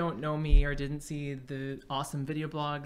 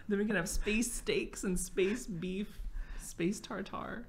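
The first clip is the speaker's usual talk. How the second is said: laughing whisper; 5 semitones higher, slower than usual. Real, not acted. Giggling joke about space food.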